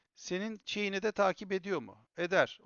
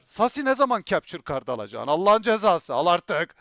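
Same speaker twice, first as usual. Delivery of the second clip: nagging viewers; 4 semitones higher, 13 dB louder than usual. Retold or imitated. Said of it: "Her yayın beni darlıyorlar".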